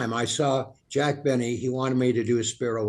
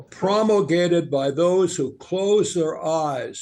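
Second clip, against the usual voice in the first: slow, even monotone Agnew; Spiro Agnew monotone; 2 semitones higher, 3 dB louder, slower than usual. Acted. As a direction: drone it out like Agnew. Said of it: "Spiro Agnew had kind of a monotone voice".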